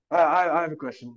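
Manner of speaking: nervous stammer. Retold or imitated. Actor interrupting the director with a question, nervously stammering. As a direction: act out sheepishly getting someone's attention.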